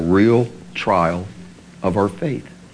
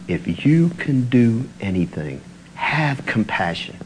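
slow, subdued plea, trailing softer; restrained plea; 3 dB quieter than usual. Retold or imitated. Father asking healing for his boy, subdued pleading. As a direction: plead quietly, without crying out. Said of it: "the man cried out".

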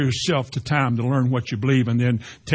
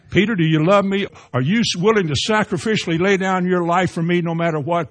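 raised, pressing preacher's question; higher, louder, searching appeal in acted dialogue; Jesus questioning Peter; 5 semitones higher, 3 dB louder than usual. Jesus asks Peter for total devotion, raised pressing question.

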